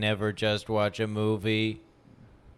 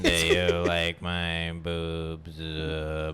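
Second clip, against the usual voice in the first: slowing down and sinking lower; winding down like a dying battery; tape stop; 5 semitones lower, slower than usual. Pretend. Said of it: "the battery dying, so the voice gets quiet".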